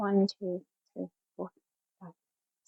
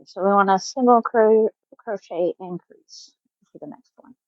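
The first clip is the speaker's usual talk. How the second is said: talking around a stitch marker held in teeth; marker in mouth. Real, not acted. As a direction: speak with a marker in your mouth. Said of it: "I have the silly marker in my mouth".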